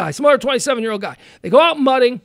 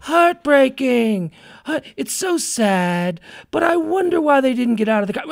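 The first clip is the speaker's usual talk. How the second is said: mock mournful comment. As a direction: read it like a fake-sad commenter. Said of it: "I'm reading these comments".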